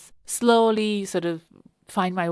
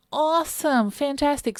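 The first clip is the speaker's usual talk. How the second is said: high, bright-pitched and louder, delighted reply; retold enthusiasm; 8 semitones higher, 4 dB louder than usual. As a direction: imitate his keen, punchy yes. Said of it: "he was like".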